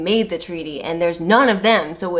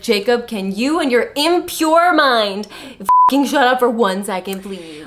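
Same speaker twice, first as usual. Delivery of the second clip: annoyed snap; 2 semitones higher, 5 dB louder than usual. Acted. Edward fed up with Jacob's thoughts, loud. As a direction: spit it out irritated. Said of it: "Edward, in the future when he's like".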